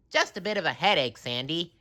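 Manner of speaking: high, quick shrugging reply; brushing it off; SpongeBob voice. A narrator's reading. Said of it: "answered SpongeBob".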